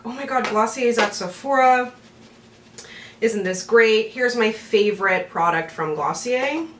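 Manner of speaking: bright gushing fake promo voice; mock excited promo. Mocking her own unposted hype video about Glossier at Sephora, gushing. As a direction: hype it like a sponsored reveal. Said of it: "I did a whole video being like".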